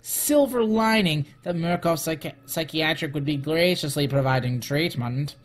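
theatrical reading of a letter; dramatic voice. Pretend. Executive writing to Miss Grant, dramatic voice. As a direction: read it out with measured drama. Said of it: "read this file in my dramatic voice".

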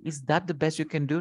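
quick, dismissive question; mild sneer. Shown as a demonstration. Teacher demonstrating how he sneered, quick mild sneer. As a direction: toss it off unkindly, fast. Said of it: "He sneered".

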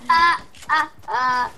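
panicked cries. Real, not acted. Panic in game.

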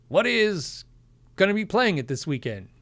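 lightly voiced late-night host quip; a hint of a Carnac-style reveal; Johnny Carson bit. Streamer rereading a chat question, mild talk-show host voice. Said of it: "I should have read that like an old Johnny Carson bit".

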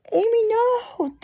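desperate breathy cry, slow; frantic cry. Acted. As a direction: plead as the sister is attacked. Sister attacked by walker.

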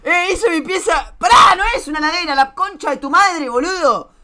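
exasperated cursing outburst; indignant yelling. Real, not acted. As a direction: yell indignantly, stretching the insults. Indignant rant at chat comments.

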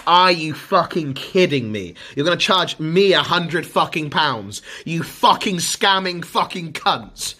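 furious customer ranting about the fee; outraged. Real, not acted. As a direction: spit the insult out slowly. Outraged at ISP charge.

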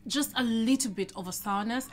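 savoring a bite mid-sentence; talking while chewing. Real, not acted. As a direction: mouth partly full. Seen 1: Face clear, lips working around food, hand near mouth after bite.

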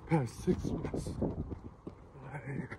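talking while jogging, breathless; out of breath mid-run; while running. Real, not acted. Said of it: "jogging right now".

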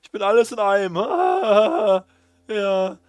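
high, loud, cheesy TV salesman; chipper 1950s ad. Acted. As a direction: sell it like a peppy infomercial host. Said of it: "ihr junger und alter Freund Marketeer".

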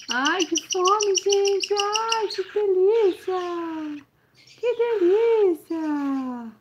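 very high, very slow squeaky chick voice; baby bird voice. Pretend. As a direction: voice the chick savoring its food. Dublando o filhote com fome. (voz de filhote dizendo que está com fome e feliz)

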